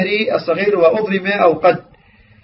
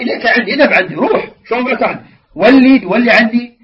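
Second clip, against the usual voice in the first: mildly hammed-up "get away from me"; mock dismissive rebuke; 3 semitones higher than usual. Grieving woman sending the Prophet away, acted as a curt rebuke.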